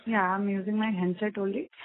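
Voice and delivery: barely audible. Real, not acted. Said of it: "Your voice is very low".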